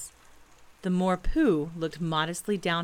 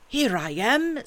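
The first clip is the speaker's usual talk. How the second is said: lightly growled bear reply; growly voice; 6 semitones higher, 5 dB louder, slower than usual. A narrator's reading. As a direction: growly bear announcing himself, a bit loud and raised. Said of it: "said a growly voice behind him".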